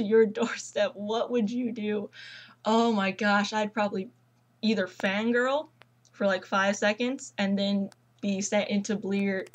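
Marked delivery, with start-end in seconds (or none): 2.6-9.5 mock British. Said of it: "I'm not British".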